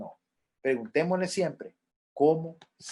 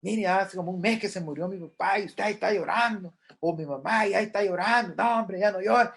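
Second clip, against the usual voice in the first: a hint of a brushing-off friend; impatient comforter; 2 semitones higher than usual. Careless friend tells a mourner to stop crying, lightly mocked. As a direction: shoo the grief away, mildly mocking. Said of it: "se le dice a la persona".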